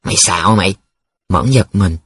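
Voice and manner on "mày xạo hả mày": scoffing. Acted. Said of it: "Chuyên hừ giọng".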